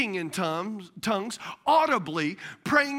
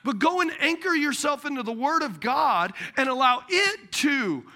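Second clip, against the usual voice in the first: preaching shout; 3 semitones higher than usual. Real, not acted. Preaching climax.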